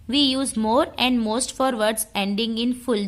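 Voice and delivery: slow, deliberate dictation read. Shown as a demonstration. Teacher dictating the rule slowly to students. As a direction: read each word out slowly for notes.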